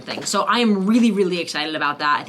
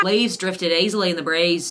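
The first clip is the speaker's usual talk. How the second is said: another uncertain try at an Australian accent. Shown as a demonstration. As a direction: read the drill line in a shaky Australian accent. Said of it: "I can't do it".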